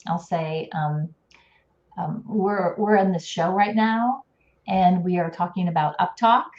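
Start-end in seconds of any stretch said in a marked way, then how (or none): 2.8-6.4 UPTALK ends rising like a question. Shown as a demonstration. Speech coach demonstrates uptalk to the host, rising ends. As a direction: lift the end of UPTALK into a question. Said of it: "my inflection goes up".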